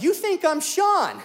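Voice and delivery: high, laughing disbelief; incredulous question. Retold or imitated. Pastor realizing a fan mistook him for Sean, laughing disbelief. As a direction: ask it stunned and laughing.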